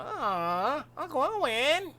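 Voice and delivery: put-on young Luke whines to Uncle Owen about going; whiny Luke. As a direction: whine like an annoying teen. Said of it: "he was a little annoying".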